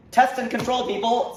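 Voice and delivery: high, loud mock outburst; mock exasperated scolding. Comedian lecturing doubters on test and control, loudly exasperated. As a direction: call it out as if lecturing slow students.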